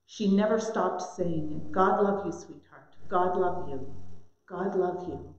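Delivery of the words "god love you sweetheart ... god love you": put-on softer, lower loving farewell to a child; lightly voiced mother, gentle and fading; tender blessing. Mother blessing child every day.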